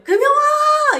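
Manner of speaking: loud, high call for a daughter; father shouting his child's name; re-enacted full-voiced calling. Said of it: "이러고 부르는 거예요".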